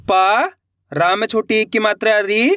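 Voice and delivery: प and री spelt out slowly, one by one; syllable by syllable. Shown as a demonstration. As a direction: sound out each letter. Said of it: "चलिए देखिए". (एक एक अक्षर अलग बोलना)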